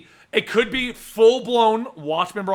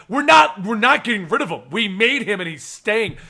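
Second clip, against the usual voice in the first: loud defiant insistence, settling down; defiant writers; 2 semitones higher, 4 dB louder than usual. Retold or imitated. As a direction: plant your feet and refuse.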